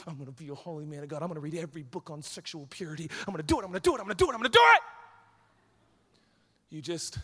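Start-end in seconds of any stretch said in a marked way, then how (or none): 0.1-4.8 mock zealous vow. Mock self-pep talk, building.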